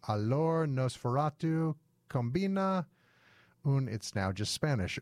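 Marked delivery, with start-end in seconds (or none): 0.1-3.9 hammy fake French accent reading. Shown as a demonstration. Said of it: "my fake French can only get me so far".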